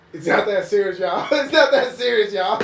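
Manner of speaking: teasing the hyped audience; mock calm-down. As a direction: tell the crowd to chill. Imitating telling theater to calm down.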